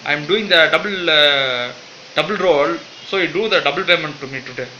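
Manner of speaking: loud comic demand. Acted. Jill demanding double pay.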